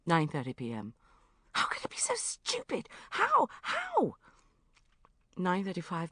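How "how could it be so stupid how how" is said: self-reproach. Acted. Bridget berating herself alone.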